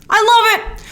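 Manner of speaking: high burst of real delight; excited. Real, not acted. Gushing about pharmacy colors.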